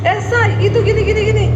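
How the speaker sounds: high, loud chatter; imitated excitable calling; retold morning chatter. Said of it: "Dia teriak".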